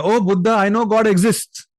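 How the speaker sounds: half-hearted retold yell of certainty; confident yell. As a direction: call out to Buddha, sure of yourself but only lightly acted. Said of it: "he very confidently yells at Buddha".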